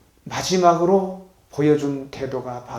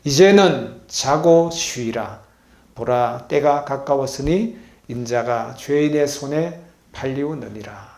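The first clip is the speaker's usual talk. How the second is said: congregational reading; 4 dB louder, slower than usual. Shown as a demonstration. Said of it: "다 같이 읽겠습니다. 시작".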